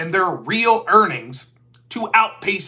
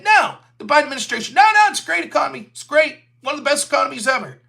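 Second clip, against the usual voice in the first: fast, higher, dismissive "no, no"; mock reassurance; 5 semitones higher, faster than usual. Commentator mocking Democrats brushing off the economy, fast and dismissive. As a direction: brush it off like a spin doctor. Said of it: "They kept saying".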